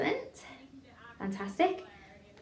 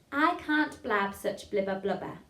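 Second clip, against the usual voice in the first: slightly faster demo. Shown as a demonstration. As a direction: still slow, crisply articulated Bs. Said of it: "a little bit faster".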